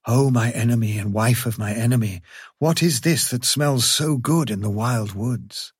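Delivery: eager, sniffing wild dog; wary but hungry dog. Acted. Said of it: "Wild Dog said".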